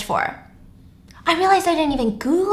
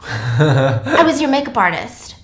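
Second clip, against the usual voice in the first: slow, lower line through laughter; laughing; 7 semitones lower, slower than usual. Real, not acted. Narrator cracking up voicing Jessica, laughing. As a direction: break into a laugh mid-line.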